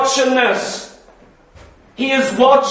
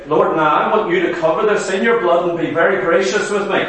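mock self-serving prayer; 6 semitones lower, faster than usual. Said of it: "but we say".

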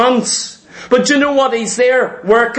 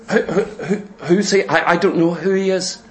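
softer, laughing mock stammer; mock denial; 4 semitones lower, 4 dB quieter than usual. Mocking Christians denying Jesus.

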